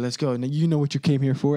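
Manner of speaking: loud concert hype call; hype man shout. Retold or imitated. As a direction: pump up the crowd. Quoting a rapper hyping crowd.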